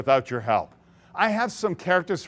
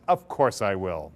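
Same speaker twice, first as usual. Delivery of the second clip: much lower, slow, sly little boatman voice; 10 semitones lower, slower than usual. Acted. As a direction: drop low and slow, like a slick offer. Sleazy boatman Mister C voiced.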